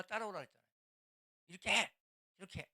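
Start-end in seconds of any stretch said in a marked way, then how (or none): 1.5-2.7 put-on shrill, loud mother barking orders at a child; mock old-school mother scolding. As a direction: snap the order like an impatient mom.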